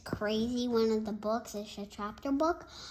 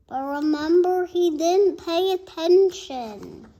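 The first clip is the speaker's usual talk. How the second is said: emphatic narration; 6 semitones higher, 10 dB louder than usual. A narrator's reading. Stressing the point.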